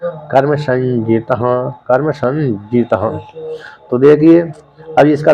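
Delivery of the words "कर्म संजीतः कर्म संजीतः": कर्म संजीतः drawn out slowly, syllable by syllable; slow chanted कर्म संजीतः; slow recitation. Shown as a demonstration. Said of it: "तो इसलिए ज्ञान है".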